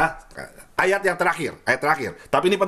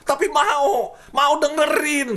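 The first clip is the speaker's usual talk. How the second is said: laughing; 9 semitones higher, much slower than usual. Real, not acted. Admits he wants to listen.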